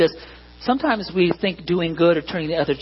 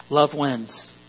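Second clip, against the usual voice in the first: dry sarcastic tone; 2 semitones lower, 3 dB quieter than usual. Shown as a demonstration. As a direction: say it with an eye roll. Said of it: "you know that's sarcastic".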